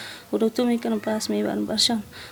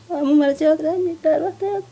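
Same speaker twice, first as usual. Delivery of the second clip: crying; 4 semitones higher than usual. Real, not acted. Mother weeping over dead daughter.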